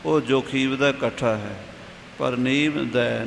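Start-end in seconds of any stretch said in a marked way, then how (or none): 2.2-3.2 ਨੀਵ ਦੈ said slowly as two words; separate words. Shown as a demonstration. Teacher showing ਨੀਵ ਦੈ must not be joined, slow and split. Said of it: "ਨੀਵ ਦਾ ਇਕੱਠਾ ਨਹੀਂ ਕਰਨਾ".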